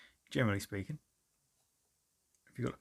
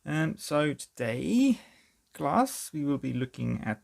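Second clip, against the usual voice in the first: teacher voice; 5 semitones higher, 4 dB louder, slower than usual. Pretend. Mock teacher addressing class.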